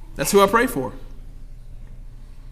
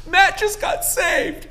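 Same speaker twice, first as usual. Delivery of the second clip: tearful; 9 semitones higher, 4 dB quieter, slower than usual. Retold or imitated. Wife tells news through tears.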